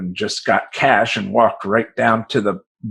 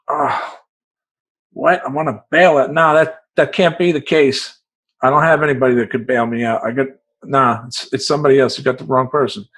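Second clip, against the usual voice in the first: incredulous; 3 semitones higher than usual. Retold or imitated. Disbelieving reply to guard.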